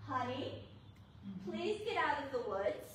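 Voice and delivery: soft, even plea; calm voice. Retold or imitated. Husband calling wife from the woods, a calm soft plea. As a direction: keep it calm though stressed. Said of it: "very calm voice".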